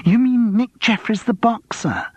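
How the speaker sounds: high, drawn-out fan squeal; excited squeal. A narrator's reading. Woman asking about the famous boxer, excited squeal. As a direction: squeal it slowly, thrilled. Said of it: "squealed the one female in the party".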